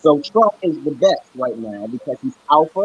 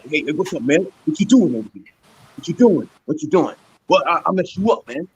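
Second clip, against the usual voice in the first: casual mock African American street talk; imitated Black American accent. Speaker showing how he doesn't sound, imitated Black American accent. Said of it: "I don't even sound black".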